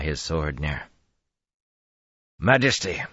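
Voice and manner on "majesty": called out sharply to the king; loud call. Acted. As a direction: call out to get attention. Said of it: "Gregorin said loudly".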